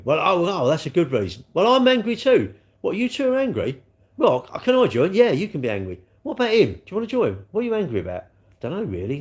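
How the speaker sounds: high-pitched, hammed-up indignation; mock angry protesters. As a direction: act out clueless people getting worked up. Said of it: "And boy, are they angry".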